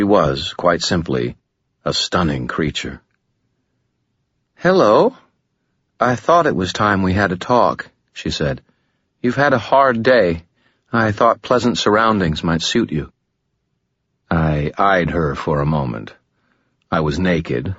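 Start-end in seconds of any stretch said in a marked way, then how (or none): 4.6-7.9 lightly voiced woman, higher, smooth and composed; a hint of a calm, alluring woman, higher; Lashiel, gracious demon. 9.2-13.1 lightly voiced woman, higher, smooth and composed; a hint of a calm, alluring woman, higher; Lashiel, gracious demon.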